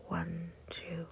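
soft, hushed falling count; exhale count. Shown as a demonstration. Guide counting two seconds of breathing out, hushed count. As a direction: count quietly down as the breath leaves.

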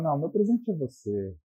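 soft, gentle lover's line; mild soft romantic voice. Retold or imitated. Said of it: "Fala com uma voz mansa".

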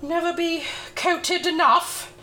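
winded while brushing; a little breathless from the work; out of breath. Real, not acted. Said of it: "I'm out of breath already".

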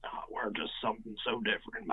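lightly hammed-up vanity; mock vain. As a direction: sound a little full of yourself, half-joking. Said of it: "makes me sound like I'm vain".

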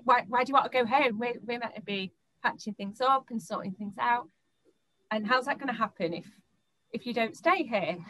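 a hint of a pestering boyfriend; annoyed boyfriend. Boyfriend objecting to her going home, lightly voiced whine.

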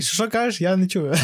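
high, loud mock of a rude driver; mocking the taxi driver. Mocking the rude taxi driver who won't understand him. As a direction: ham up a driver pretending not to hear. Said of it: "Такий".

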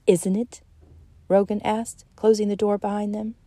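reading a novel aloud to a class, steady; audiobook-style reading; story narration. A narrator's reading. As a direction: narrate the scene evenly and let the dialogue lift. Author reads novel scene aloud.

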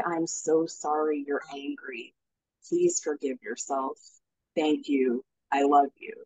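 heart-centered tender voice. Shown as a demonstration. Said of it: "you drop down into your heart center and you kind of take on the role of your higher self".

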